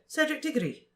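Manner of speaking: put-on high, hesitant girl's voice; pause, then lift the name high; hesitant Cho. A narrator's reading. Cho telling Harry her date, high and hesitant.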